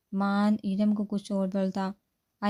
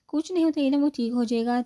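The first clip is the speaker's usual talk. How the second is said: light reassurance; 5 semitones higher, 4 dB louder, faster than usual. Acted. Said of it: "Ayan نے ہلکے پھلکے سے کہا".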